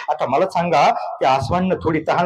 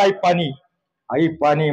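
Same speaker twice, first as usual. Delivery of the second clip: parched plea; 3 semitones lower than usual. Retold or imitated. Collapsing boy asking mother for water, faint plea. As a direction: beg weakly, throat parched. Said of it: "घशाला कोरड पडली".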